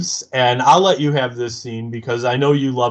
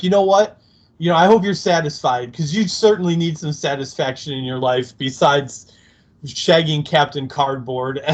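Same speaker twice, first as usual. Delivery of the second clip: higher, quicker, sulky snark; Spike's petty tirade; 4 semitones higher than usual. Retold or imitated. Fan retelling Spike sulking at Buffy, higher quick snark. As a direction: rattle off the wounded insults. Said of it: "mini tirade".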